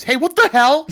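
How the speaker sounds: sudden high yell; startled shout. Acted. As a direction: jump back and shout. Kids startled by skateboarder.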